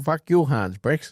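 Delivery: high, slow puppet sneer; a comic high-pitched curse. Retold or imitated. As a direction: drag it out like a marionette. Quoting Team America puppet.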